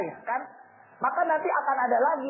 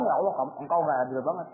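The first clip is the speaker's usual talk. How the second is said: bitter complaint; 7 semitones lower, faster than usual. Retold or imitated. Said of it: "Terus dia bilang".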